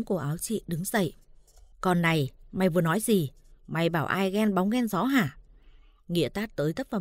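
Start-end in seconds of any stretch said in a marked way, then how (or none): 1.8-5.4 grab her collar and bark it; angry accusation. Acted. Drunken husband berating his wife, angry snarl.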